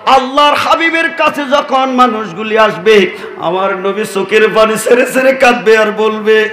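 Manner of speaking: slow, melodic sermon chant; swelling, sustained declamation; impassioned preaching. Real, not acted. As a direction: draw the vowels out in singsong.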